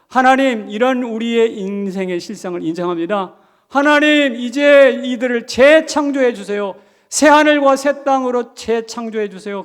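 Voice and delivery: loud, high fervent prayer. Acted. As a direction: plead with rising fervor.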